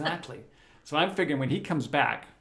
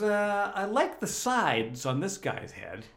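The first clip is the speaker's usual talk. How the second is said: quoting De Niro; 6 semitones higher, much slower than usual. Retold or imitated. Retelling De Niro's request.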